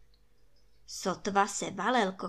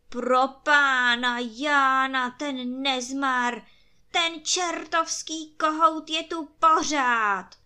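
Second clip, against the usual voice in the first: slow, loud exasperated wail; lamenting emperor; 4 semitones higher, 7 dB louder, slower than usual. A narrator's reading. Emperor at the window wails that the devilish rooster is back, slow and loud. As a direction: moan in despair at the pest. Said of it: "zanaříkal v okně císař".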